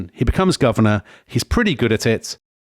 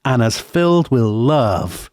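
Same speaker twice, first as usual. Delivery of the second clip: earnest campaign promise; 3 semitones higher than usual. Retold or imitated. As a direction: imitate a candidate's heartfelt vow, slowing at the end. Quoting Carter's earnest campaign promise.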